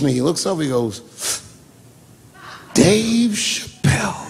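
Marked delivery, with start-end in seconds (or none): 2.7-4.2 high, slow, drawn-out name; stretched, raised greeting across a room; delighted recognition call. Retold or imitated. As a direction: imitate calling out on spotting someone. Obama recognizes him and calls out.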